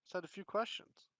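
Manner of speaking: chirpy would-be private eye, talking up a stranger; detective Harold. Acted. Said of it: "he says".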